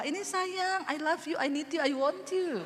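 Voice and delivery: lightly sing-song doting newlywed; mock lovey-dovey. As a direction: coo it, playfully overdone. Acted doting newlywed serving breakfast.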